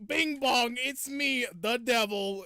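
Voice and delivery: high, loud sing-out devil entrance; comic devil. Retold or imitated. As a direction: announce yourself as a silly demon. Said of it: "the voice for it is so funny".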